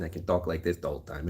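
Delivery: put-on Boston accent, dropped r's. Shown as a demonstration. Streamer shows chat a Boston accent on request, put-on Boston voice. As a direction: talk like a Bostonian. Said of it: "use my Boston accent".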